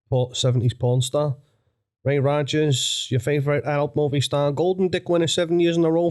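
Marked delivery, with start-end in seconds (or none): 2.0-6.1 Ray Rogers voice. Pretend. Porn star introducing himself, hammed-up New York accent. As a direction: ham up a seventies New York showman. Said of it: "Ray Rogers is a".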